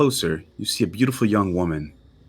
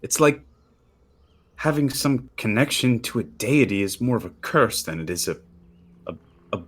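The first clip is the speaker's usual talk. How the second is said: put-on girl's voice; 4 semitones higher than usual. Girl voiced bitterly.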